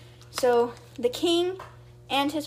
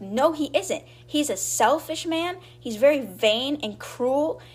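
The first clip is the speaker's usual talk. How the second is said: raised pitch, indignant but only lightly yelled; mock angry yell; 4 semitones higher, slower than usual. Daisy defending her point to Bert, a mild mock yell. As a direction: retell the girl's outburst with a high, heated edge. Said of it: "And Daisy's yelling at this point".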